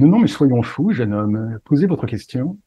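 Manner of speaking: lightly put-on posh gentleman voice; silly pompous voice. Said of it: "continuer à prendre cette voix débile".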